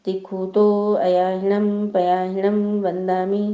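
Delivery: slow, drawn-out prayer chant; prayer recitation. Acted. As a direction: stretch each sacred word in an even tone.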